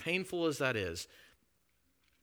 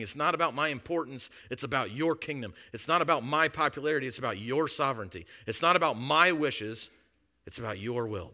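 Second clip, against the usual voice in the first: rising preaching; 3 semitones higher, 5 dB louder than usual. Real, not acted. Preaching Jesus' words rising.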